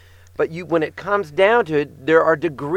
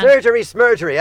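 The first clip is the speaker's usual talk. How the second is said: playful dismissal; 7 semitones higher, 6 dB louder than usual. Real, not acted. Joking dismissal.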